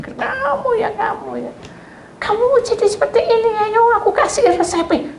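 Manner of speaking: high, playful scolding voice; teasing friend. Retold or imitated. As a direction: tease her fondly. Friend teasing her face. (teman menggoda dengan suara tinggi)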